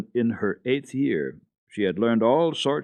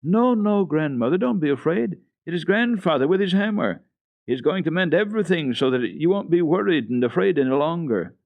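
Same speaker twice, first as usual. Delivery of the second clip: put-on child's high, louder reassurance; comforting; 9 semitones higher, 5 dB louder than usual. A narrator's reading. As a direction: soothe her in a bright raised child voice. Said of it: "said comfortingly".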